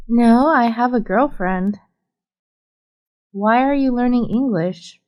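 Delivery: normal talking voice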